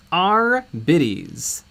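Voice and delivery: slow, drawn-out pirate voice. Pretend. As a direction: stretch our biddies like a pirate, slowly. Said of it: "you can say it like a pirate who loves boobs".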